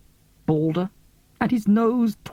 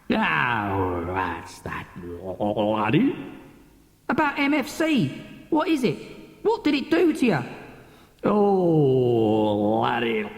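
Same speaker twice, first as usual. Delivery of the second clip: much lower, slow, mournful and weepy; grieving drunk captain; 5 semitones lower, slower than usual. Acted. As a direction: sink into old sorrow over the bottle.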